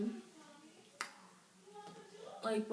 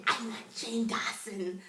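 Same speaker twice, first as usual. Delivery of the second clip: bragging; 3 dB louder, slower than usual. Retold or imitated. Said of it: "friends annoyed 'cause I'm just like".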